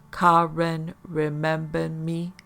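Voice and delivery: slow, alien, strange timbre; a harsh creature asking. Acted. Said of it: "the harshness of its shrill voice".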